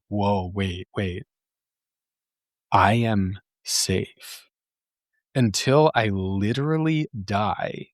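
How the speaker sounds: slow, awed and sincere; deep realization. Retold or imitated. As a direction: let the truth sink in slowly. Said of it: "deep down into those deeper layers".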